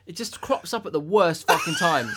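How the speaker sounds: half-laughing out the complaint. Real, not acted. Laughing at own embarrassment.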